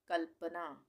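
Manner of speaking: कल्पना with ल closed straight onto प; no vowel after ल in कल्पना, kal-pana; correct half l. Shown as a demonstration. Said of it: "आधे ल का उच्चारण हो रहा है". (कल्पना में आधा ल)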